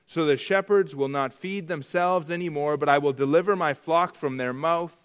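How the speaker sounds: scripture reading. Acted. Preacher reading God's warning against the shepherds, declaiming. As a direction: proclaim the prophet's words to the congregation.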